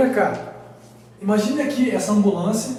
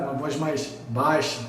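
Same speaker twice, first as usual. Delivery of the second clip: lower, slower demo of a deep voice; 6 semitones lower, 4 dB quieter than usual. Shown as a demonstration. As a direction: drop the pitch down low. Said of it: "Ou falar com uma voz mais grave".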